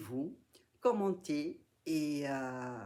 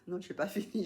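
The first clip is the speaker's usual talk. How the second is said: laughing; 4 semitones higher, faster than usual. Real, not acted. Realizes haul isn't over.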